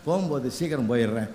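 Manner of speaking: low, soft retold plea; gentle apology. Woman softly apologizing to her boss for leaving, gentle. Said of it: "அன்பா சொல்லிச்சு".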